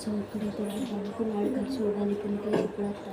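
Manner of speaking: whispering while hiding. Real, not acted. Waiting hidden for the target.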